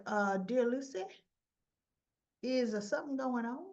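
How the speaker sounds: lightly attempted Southern accent, questioning lilt. Martin questions Lucy at the table, attempted Southern accent. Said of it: "I can't get Martin's accent".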